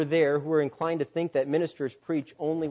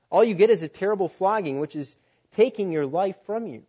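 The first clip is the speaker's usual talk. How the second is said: loud, high, fast exasperated master; a fed-up master demanding answers at full volume; 5 semitones higher, 8 dB louder than usual. Acted. Master confronts the bleeding slave.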